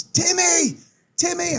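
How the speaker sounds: high shout across the field; calling out. Retold or imitated. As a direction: call his name from far away.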